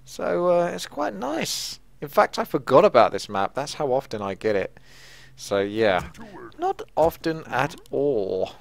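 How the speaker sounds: a hint of a lumbering ogre; ogre accent. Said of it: "Hence why I spoke the way I did".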